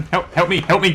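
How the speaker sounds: panicked shouts for help; being chased. Real, not acted. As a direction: yell for help in terror.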